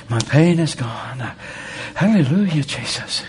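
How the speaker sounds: rising praise, pitch jumps on hallelujah; mock praise. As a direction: act out thanking God for the healing. Acting out praise for healing.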